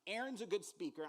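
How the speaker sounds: a hint of an annoyed deity; angry God. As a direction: read God's lines with rising anger. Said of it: "Then the Lord became angry with Moses".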